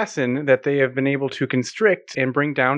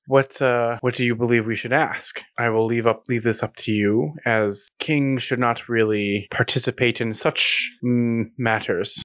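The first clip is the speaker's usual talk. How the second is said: regal king; 5 semitones lower than usual. Acted. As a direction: speak as an aloof old king. DM voices King Tama.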